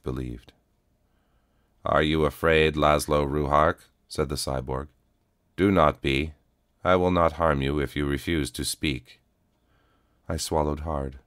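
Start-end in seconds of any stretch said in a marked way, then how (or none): 1.8-3.9 even, steady robotic calm; a worn cyborg, calm and level; flat cyborg voice. Acted. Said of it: "came a flat voice". 5.5-9.2 even, steady robotic calm; a worn cyborg, calm and level; flat cyborg voice. Acted. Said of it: "came a flat voice".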